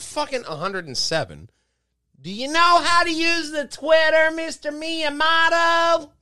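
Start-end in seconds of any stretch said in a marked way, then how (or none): 2.2-6.1 mock Japanese accent. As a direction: talk like an angry samurai, mock Japanese accent. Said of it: "Why are you speaking like Angry Samurai".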